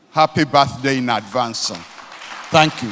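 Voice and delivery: loud joyful birthday cheer; ecstatic praise shouting. Real, not acted. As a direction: call it out with delight. Birthday praise at event close.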